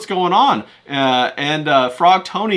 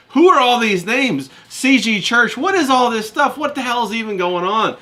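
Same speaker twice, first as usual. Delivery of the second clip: confused; 7 semitones higher than usual. Retold or imitated. Confused outburst at names.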